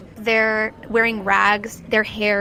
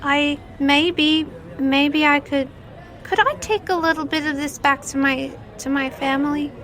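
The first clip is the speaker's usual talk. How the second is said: put-on timid child; 5 semitones higher than usual. Child asks to take food home.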